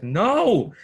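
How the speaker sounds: high, loud horrified cry; shouting. Acted. Game master as Vera seeing her companion stabbed, shouting. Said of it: "as she shouts".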